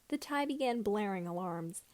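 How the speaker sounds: usual speaking voice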